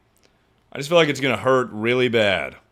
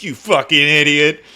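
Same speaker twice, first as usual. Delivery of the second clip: self-scolding. Retold or imitated. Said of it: "I was like".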